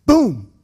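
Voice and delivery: sudden loud "boom" impact; imitated crash. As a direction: boom it out like a heavy thud. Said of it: "I hear a sound".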